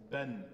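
"Ben." short, with a clear final n; a teacher showing Fatha with Alif, short "Ben."; nunation demo. Shown as a demonstration. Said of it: "sieht dann so aus".

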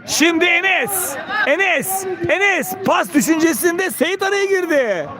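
rising calls on the attack; excited commentator. Real, not acted. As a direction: build up the attack call. Attack builds, then cut out.

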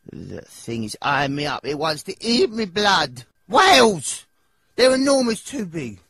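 climbing from worried to high loud panic; panicked rising fear. Acted. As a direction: shriek as the whale looms. Panicking at the whale.

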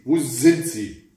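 troll searching every corner, shouting. A narrator's reading. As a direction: bellow where are they like a hunting troll. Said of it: "schrie der Troll und schnüffelte".

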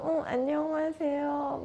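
a fake-polite hello squeezed out through a grimace; forced polite greeting. Shown as a demonstration. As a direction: greet sweetly while holding back irritation. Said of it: "인상이 찌그러지면서".

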